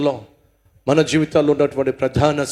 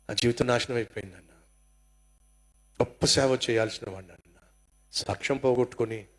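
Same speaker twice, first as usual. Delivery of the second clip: mild tearful confession; 3 semitones lower, 5 dB quieter than usual. Retold or imitated. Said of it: "ఓ తమ్ముడు వచ్చి ఏడుస్తున్నాడు".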